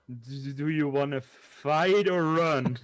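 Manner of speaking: slow, nervous stammered question; trembling voice. Acted. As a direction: ask it timidly, voice trembling. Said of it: "with a trembling voice".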